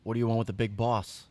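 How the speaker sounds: lightly voiced tough street kid; brushing off a stranger, a hint of swagger. Plays a street kid NPC.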